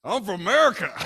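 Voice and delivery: high, loud mock-proud shout; defiant shout. Imagined American answering the invaders, high loud defiant shout.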